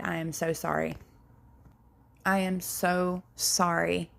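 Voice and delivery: soft, sincere sorrow; sincere apology. Real, not acted. Comforting listeners who suffered mistreatment, softly sincere. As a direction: tell the sufferer you are truly sorry.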